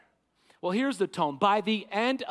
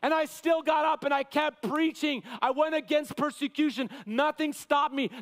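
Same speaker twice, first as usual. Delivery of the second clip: mock shout; 3 semitones higher than usual. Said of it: "He did a frantic screaming".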